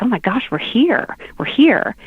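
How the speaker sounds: whispered, rising with excitement; hushed eager whisper as if just waking; excited whisper. Retold or imitated. Friend waking on the plane, whispering to her seatmate, excited whisper.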